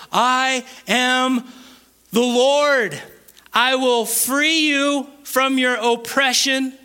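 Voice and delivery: slow scripture reading. Real, not acted. Preacher reads verse six so they get it, slow. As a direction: read it out deliberately, phrase by phrase. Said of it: "I'm gonna read it really slow".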